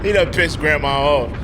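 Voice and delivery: cracking up, loud and delighted; laughing. Real, not acted. Host laughs at a guest losing it, loud and amused. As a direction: laugh it out, can't hold it in.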